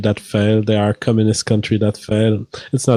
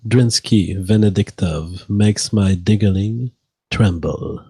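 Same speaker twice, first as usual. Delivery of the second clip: sultry voice; 3 semitones lower, slower than usual. Pretend. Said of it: "in your most sultry voice".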